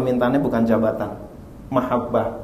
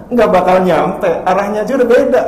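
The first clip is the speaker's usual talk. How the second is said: emphatic preaching; 6 semitones higher, 4 dB louder than usual. Real, not acted. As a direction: drive the point home. (berkhotbah dengan tegas dan keras)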